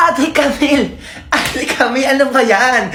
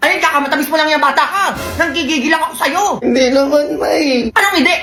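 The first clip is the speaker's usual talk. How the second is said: scolding mother; 2 semitones higher than usual. Acted. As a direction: scold the child for eating sweets, a hint of fond exasperation. Mother scolds kid over sweets.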